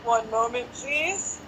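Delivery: a light take on the recorded "One moment, please"; phone hold voice. Shown as a demonstration. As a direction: say "One moment, please" like a phone-queue announcement, rising at the end. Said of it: "actually my best impression".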